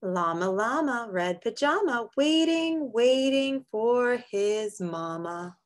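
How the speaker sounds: sing-song picture book read; reading to children. Acted. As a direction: read it gently to little kids. Reads a picture book aloud.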